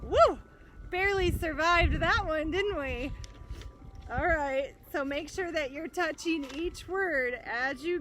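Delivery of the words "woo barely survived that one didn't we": high and loud, laughing relief; teacher jokes about escaping the T-Rex; relieved whoop. Real, not acted. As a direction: shout it out like you escaped. After the T-Rex joke.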